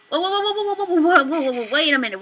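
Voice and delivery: rising alarmed whoas; startled whoa. Real, not acted. Player as the pellets close in, startled. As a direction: caught off guard, real alarm.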